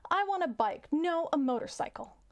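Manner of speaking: high-pitched cartoon rabbit; little joke rabbit. Rabbit making a wish to the genie, high little voice. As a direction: play a small rabbit, pitch well up. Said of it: "The rabbit says".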